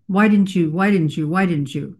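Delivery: "Why" leaned on in each repeat, dropping away; stress on why. Shown as a demonstration. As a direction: repeat it as a reproach, leaning on "Why". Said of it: "That emphasis on the word why".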